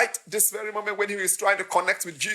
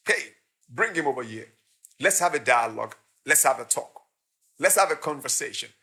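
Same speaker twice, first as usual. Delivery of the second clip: calm, lowered invitation; 3 semitones lower than usual. Acted. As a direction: invite him over kindly. Voices Jesus calmly inviting.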